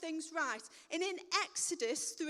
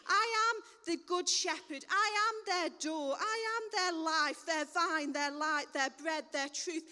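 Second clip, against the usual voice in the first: proclaiming Jesus; 3 dB louder than usual. Acted. Jesus voiced declaring.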